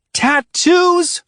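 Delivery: loud, high shocked shriek; screamed question. A narrator's reading. Ruby shrieking in disbelief at Adrian. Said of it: "Ruby screamed".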